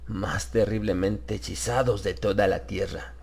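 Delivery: a lightly voiced stranger steadying Harris; reassuring yet commanding. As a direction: soothe him but leave no room to refuse. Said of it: "imprimiendo a su voz un tono tranquilizador, aunque con cierto matiz de orden".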